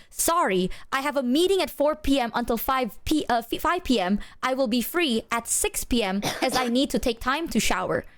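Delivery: carefully enunciated, item by item; deliberate, over-clear explanation; clearest way possible. Retold or imitated. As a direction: spell out the schedule very clearly. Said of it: "in the clearest way possible".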